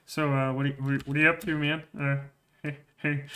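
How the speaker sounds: lightly mocking pushy guy; sleazy guy hitting on her. A hint of a pushy moviegoer pestering the cashier. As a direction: play the pest chatting her up. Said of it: "He was just like".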